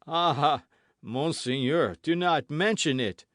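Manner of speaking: loud, high, pleading wail; pitiable plea. A narrator's reading. Terrified host pleading with D'Artagnan, pitiable voice. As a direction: beg for pity. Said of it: "in the most pitiable voice imaginable".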